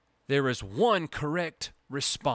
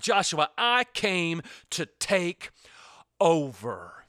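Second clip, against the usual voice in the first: voicing the Lord; 3 semitones higher than usual. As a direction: speak as the commander of heaven's army, rising with authority. Preacher voicing the Lord's commander.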